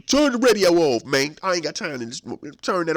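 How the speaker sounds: loud, high angry order; upset demand. Acted. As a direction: bark at them to shut it off. Upset inmate demands radio off.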